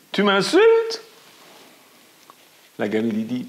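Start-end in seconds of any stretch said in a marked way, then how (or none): 0.1-1.0 very high, loud echoed cry. A narrator's reading. The echo throwing back her outraged question. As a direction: shriek it back like a far echo. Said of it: "L'écho dit".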